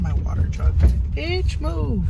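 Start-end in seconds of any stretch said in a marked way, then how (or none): 1.1-2.0 snapping at traffic, pitched up; sudden angry outburst behind the wheel; road rage. Real, not acted. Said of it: "I have road rage".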